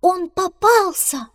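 high, loud, slow excited cry; excited shout. A narrator's reading. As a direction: yell the news out. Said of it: "как закричит". (громкий возбуждённый крик)

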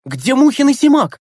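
high, loud teacher's voice demanding an answer; geography teacher's voice. A narrator's reading. Geography teacher demands to know where Mukhin and Simak are, loudly high. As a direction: voice her like a stern geography teacher.

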